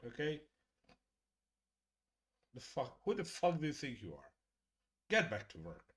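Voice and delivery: mock-indignant ribbing; mock scolding. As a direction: scold them in mock disbelief. Mock scolding a recovering chat member.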